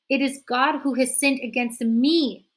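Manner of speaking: loud booming defiance; thundering. A narrator's reading. Florence thundering at the children, loud. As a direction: thunder the blasphemy. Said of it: "his voice thundered".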